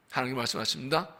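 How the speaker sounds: ordinary delivery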